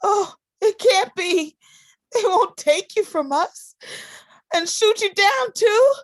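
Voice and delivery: loud, high, sobbing protest; wailing in panic that he'll be shot; crying out in despair. Acted. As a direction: cry it out, pleading and breaking. Sister cries at brother's draft news.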